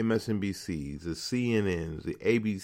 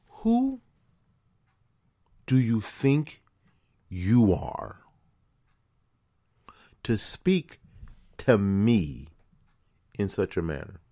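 indignant retort; slower than usual. Pretend. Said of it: "'Cause I want to tell her".

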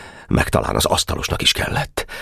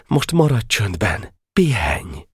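slow, hushed, higher voice; soothing; 7 semitones higher, slower than usual. Acted. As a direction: settle a sick friend gently. Boy soothing sick friend in bed. (csitítgatva, lassan)

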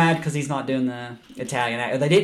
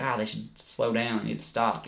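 mock critic; 3 semitones lower, 9 dB quieter than usual. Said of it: "sit back and be like".

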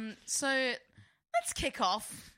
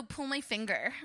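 put-on American accent. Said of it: "Americans go".

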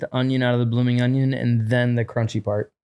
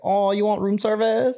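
movie quote; 8 semitones higher than usual. Retold or imitated. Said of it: "he's like".

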